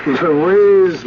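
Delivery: says her name through a fond laugh. Acted. Husband laughs with delight.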